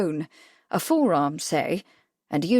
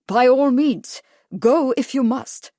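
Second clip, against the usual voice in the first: exclaimed; 4 semitones higher, 5 dB louder than usual. A narrator's reading. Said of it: "he exclaimed loudly".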